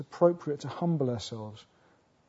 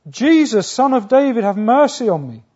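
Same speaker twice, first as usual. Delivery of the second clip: full-force shout, high and loud; desperate bellowed plea for mercy; crying all the more; 6 semitones higher, 12 dB louder than usual. Acted. Blind beggar crying louder after being told to hush, shouting. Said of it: "he cries all the more".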